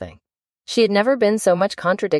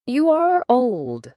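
poem recitation; 9 semitones higher, much slower than usual. Acted. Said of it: "said the youth".

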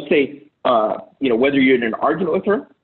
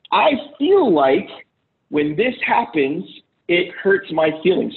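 calm and gentle; 3 semitones higher, slower than usual. Shown as a demonstration. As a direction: say it slowly and gently. Modelling a calm I statement.

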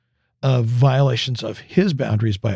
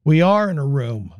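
curt; 3 semitones higher than usual. Retold or imitated. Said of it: "Sarah responds in the same tone".

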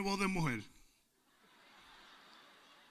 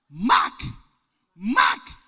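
loud repeated call; calling the dog; 9 dB louder than usual. Retold or imitated. Preacher calling his deaf bulldog, loud call. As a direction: shout the dog's name across the patio.

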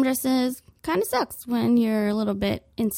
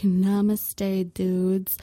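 lower, slow blissed-out drawl; mellow yoga teacher; 3 semitones lower, much slower than usual. Retold or imitated. Calm girl at prom season, lower and mellow. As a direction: float it out like a stoned yogi.

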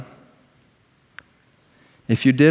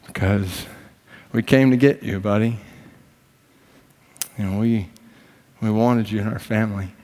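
tearful tenderness. Retold or imitated. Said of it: "Now his daddy's weeping".

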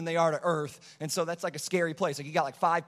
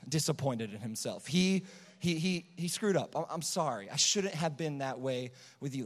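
tender apology; 2 semitones lower than usual. Retold or imitated. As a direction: say sorry gently to a tiny baby. Father apologizing to newborn daughter.

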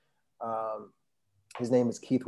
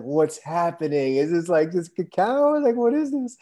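amazed disbelief; 6 semitones higher, 6 dB louder than usual. Retold or imitated. Retelling his awe at the ceremony.

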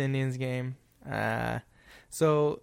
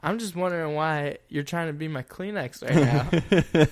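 laughing mock retort; 3 semitones higher than usual. Retold sarcastic comeback, laughing.

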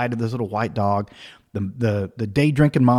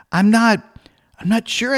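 blank, flustered; 6 semitones higher than usual. Retold or imitated. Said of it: "I'm blank".

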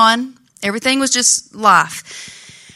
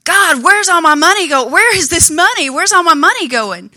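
mild mock cry out, higher pitch; retold cry to God; 6 semitones higher than usual. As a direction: replay the desperate plea, only half raised. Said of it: "it's like I was screaming out to God".

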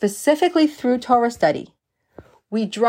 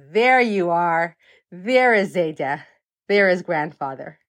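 tender realization; 5 semitones lower than usual. Retold or imitated. Child finds grandfather's essence.

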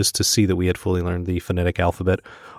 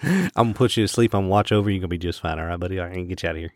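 put-on Southern accent; 2 semitones lower, 3 dB quieter, much faster than usual. Anesthesiologist talks the patient to sleep, Southern. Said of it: "Southern accent".

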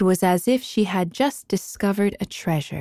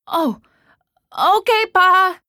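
calling back; 12 semitones higher, 6 dB louder than usual. Acted. Son answering father's distant call.

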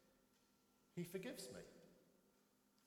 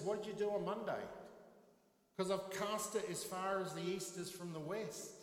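gently amazed God asking what happened; God's voice, surprised; 6 semitones higher than usual. Retold or imitated. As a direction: play God genuinely not remembering. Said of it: "I think God says".

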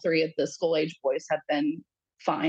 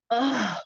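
higher groan, as if hit in the gut; gut-punched groan; 6 semitones higher than usual. Retold or imitated. Mother reacting to the child's words, gut-punched groan. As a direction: let out a pained "ugh". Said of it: "like, a gut punch".

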